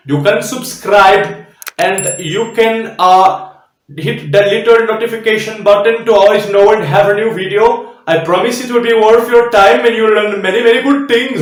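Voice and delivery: exaggerated Indian accent, lightly done; playful Indian accent asking viewers to subscribe. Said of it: "try to imitate the Indian accent here".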